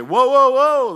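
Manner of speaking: high, loud mock "whoa, whoa, whoa"; hammed-up cry of losing balance; falling-off yell. Shown as a demonstration. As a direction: yell as if toppling off a stage. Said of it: "me falling off the".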